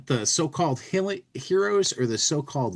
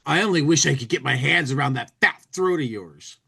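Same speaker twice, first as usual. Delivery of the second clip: vindictive. Acted.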